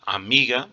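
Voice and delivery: Amiga with the middle syllable MI pushed harder; stress on MI in Amiga. Shown as a demonstration. Teacher showing students the stressed syllable, Amiga stressed on MI. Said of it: "o mi é que eu pronuncio com mais força".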